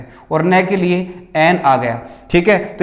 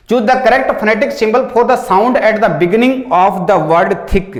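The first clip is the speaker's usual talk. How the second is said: slow reading aloud; much slower than usual. Shown as a demonstration. Teacher reading the next exam question, slow. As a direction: question read out slowly. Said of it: "reads question aloud".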